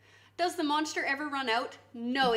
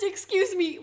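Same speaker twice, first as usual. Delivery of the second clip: loud, high mock Italian accent; lightly hammed-up Italian accent; caricature Italian accent; 5 semitones higher, 6 dB louder than usual. Streamer explaining what mi scusi sounds like, caricature Italian accent. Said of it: "in, like, a racist accent".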